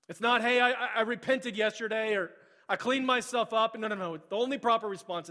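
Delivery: preaching at full force. Acted. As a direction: drive the point home to the church. Loud preaching climax.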